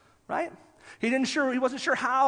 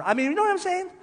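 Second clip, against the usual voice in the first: laughing; 10 semitones higher, 5 dB louder than usual. Real, not acted. Laughs at Summer yoga idea.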